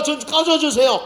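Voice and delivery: loud, high, slow "get lost"; mock rude brush-off. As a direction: shove Jesus away, rudely and slowly. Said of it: "그렇게 말하지". (짜증 내며 느리고 크게 밀어내듯)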